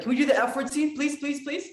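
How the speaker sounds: high, eager pleading; imitated excited little brother. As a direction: beg like a kid desperate for a treat. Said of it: "My little brother was also very excited".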